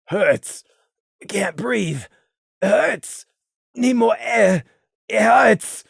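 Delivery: a lightly voiced weak, hurting murmur; faint words from a wounded pony; Gloom's voice, wounded. A narrator's reading.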